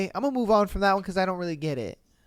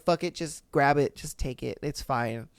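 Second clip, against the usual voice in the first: resigned giving in; 5 semitones lower, 5 dB quieter than usual. Retold or imitated.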